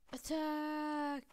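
loud, high, drawn-out war shout; mock-heroic call to attack; battle cry. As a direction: yell the order to charge. Leading a charge in game.

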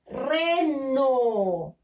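Reno stretched out but connected, RE running into NO; teacher blending Reno with no gap; syllables joined. Shown as a demonstration. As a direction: read "Reno" as one long falling word. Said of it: "Y vamos a leer".

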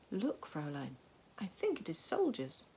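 lightly voiced companion spotting soldiers; a lightly put-on voice, lifting at the end; Roland's voice. A narrator's reading. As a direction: report a sighting in a light character voice. Roland's line in story.

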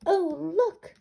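high, loud delighted oh look; surprised. Acted. Farmer spotting the hatching chicks, surprised. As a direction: discover something with a gasp. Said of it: "said the farmer".

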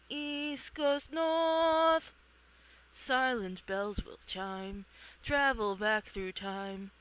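slow, eerie oracle chant; ominous prophecy. Acted. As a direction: intone the riddle like a seer.

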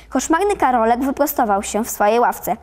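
plain reading voice

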